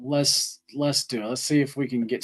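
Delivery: hesitant, half-hearted agreement; unenthusiastic. Real, not acted. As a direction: go along with it without any excitement. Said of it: "You did sound so excited ... We did not hear the excitement".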